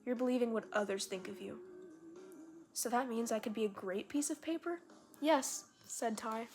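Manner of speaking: put-on reading a child's story aloud; animated read-aloud with lifted quotes. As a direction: read it out like a storybook, voicing the dialogue lightly.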